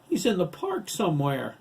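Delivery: high, loud panicked answer; hysterical reply. A narrator's reading. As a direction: blurt it out in a panic. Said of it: "Matt hysterically replied to both questions".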